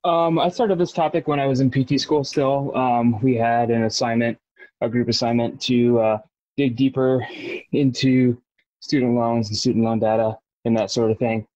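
breathless from cycling; out of breath. Real, not acted. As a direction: talk while pedalling hard, short of air. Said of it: "I'm out of breath 'cause I'm spinning on my bike right now".

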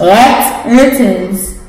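talking around a mouthpiece; wearing a mouthguard. Real, not acted. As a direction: read it with a mouthguard in. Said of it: "the person with the mouthpiece in reads a card".

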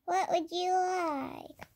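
slow, grand wish-granting bird; magic bird voice. Pretend. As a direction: drawl it out like a genie bird.

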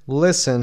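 "listen" with the t left silent, stress on lis. Shown as a demonstration. Teacher showing learners "listen", t unspoken and first syllable stressed. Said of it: "صدای تی تلفظ نمیشه در اینجا".

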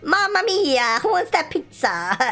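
hammed-up Italian chef voice; playful mock Italian pizza cook; jolly italian pizza chef.

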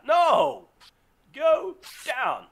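loud, high yell at the enemy; real urgency, commanding; urgent yell. Real, not acted. Gamer yelling at a spider to stay down, loud.

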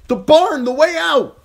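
high, sustained loud cry; shouted. A narrator's reading. Arya urging Gendry toward the escape, high shout. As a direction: shout directions over the chaos. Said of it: "she shouted".

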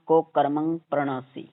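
ਕੁਕਰਮੰ as "ko, karamang"; slight pause after "ko". Shown as a demonstration. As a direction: break ਕੁਕਰਮੰ briefly after its first syllable. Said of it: "ਕੋ ਤੋਂ ਥੋੜ੍ਹਾ ਕੁ ਰੁਕ".

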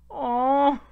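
real laughing outrage; laughing disbelief. Real, not acted. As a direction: crack up at dying in a dating sim. Shocked at his game death.

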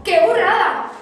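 mother stunned by the golden plant; astonished cry. Acted. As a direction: exclaim it in shock. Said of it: "espeluznada, pegó otro brinco y dijo".

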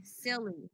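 Silly with a crisp s; Silly, hissing s at the start; clear s sound. Shown as a demonstration. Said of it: "you said shilly".

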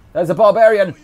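sudden high excited call. Real, not acted. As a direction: call it out, startled and thrilled. Spotting enemy in game.

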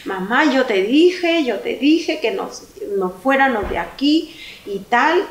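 imitating crying son. Son begging his mother, a touch of mock tearful pleading. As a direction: lightly voice the upset son as he pleads, slowed. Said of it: "mi hijo llorando como un loco".

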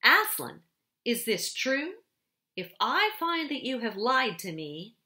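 loud, high, threatening demand; furious threat. A narrator's reading. Witch queen threatens Edmund, loud and furious. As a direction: threaten him with rising fury.

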